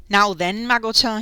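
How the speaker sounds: mild call to a dog; crying out. A narrator's reading. Innkeeper speaking to his dog, crying out. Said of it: "he cried, speaking to the dogs".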